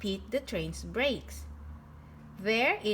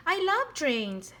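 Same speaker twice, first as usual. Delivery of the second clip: excited; 7 semitones higher, 3 dB louder than usual. A narrator's reading. Pete excited about trains.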